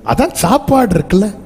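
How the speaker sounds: a lightly voiced baffled husband; husband's mock question. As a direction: ask why she won't eat, raising the pitch. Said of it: "சொல்லற மாதிரி சொல்றாரு".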